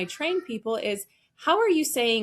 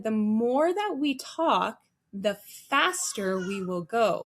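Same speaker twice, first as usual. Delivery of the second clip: slow, measured; slower than usual. Retold or imitated. Coach slows down, warning against speed.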